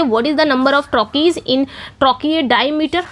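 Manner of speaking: reads the question very slowly, word by word; slow question reading. Shown as a demonstration. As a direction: spell the question out slowly for the class. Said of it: "reading out the quiz question". (प्रश्न को बहुत धीरे पढ़ना)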